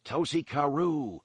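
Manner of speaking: slow, high call after someone; yelled after. A narrator's reading. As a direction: shout it after the fleeing man. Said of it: "Han yelled after him".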